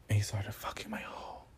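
hushed, breathy whisper; whispering the juicy part. Real, not acted. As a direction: drop to a secretive whisper. Whispered confession of intimate detail.

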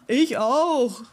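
lightly voiced seal, falling call; a hint of a seal's put-on voice. A narrator's reading. Seal joining the pirate's trip, calling out. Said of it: "rief die Robbe".

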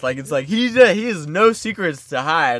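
in-your-face voice. Retold or imitated. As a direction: imitate a booming man with nothing to hide. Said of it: "a very in-your-face voice".

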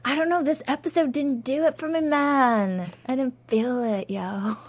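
chill stoner dude voice. Pretend. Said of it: "That was my stoner voice".

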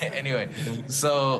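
a laugh spills into the word anyway; chuckle, then get back on track. Real, not acted. Founder laughing as he returns to his story, amused. Recovering from own joke.

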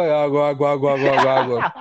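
very low, monotone repeated call; water seller. Retold or imitated. Water vendor at the cathedral, low droning call. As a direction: drone the word like a bored hawker's loop. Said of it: "substituía as palavras por água".

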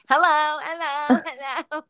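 put-on excited kid's British hello. Host imitating the hyper kid saying hello over and over, excited. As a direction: chirp it loudly like a hyper British child. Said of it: "He's so excited".

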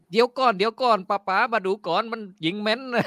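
lightly voiced father in a Suphan Buri country accent; a hint of a Suphan villager dad pleading. Father stops the punishment, touch of Suphan accent. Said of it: "อันนั้นสุพรรณนะ".

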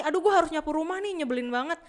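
mock grumble, starting high; exaggerated-for-effect irritation, easing off at the end; acted annoyance. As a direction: play someone irked by a chore. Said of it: "misalkan lo sebel nih".

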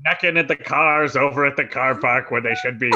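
lightly voiced grumbling elder; a hint of a scolding grandparent; mock old person. Joking about sounding like old people, a hint of an elderly grumble. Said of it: "talking like old people".

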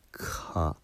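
soft, voiceless か released from the throat; demo syllable ka. Shown as a demonstration. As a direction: open the closure and let か out. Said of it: "それを広げるときに".

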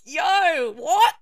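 loud, high hype shout; hyped crowd. Retold or imitated. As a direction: cheer it like a crowd that loved it. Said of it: "people around me were just like".

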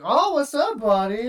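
high, loud mock cheery hello; mock friendly greeting. Enemy player answers over proximity chat, mock cheery. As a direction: greet him with fake cheer.

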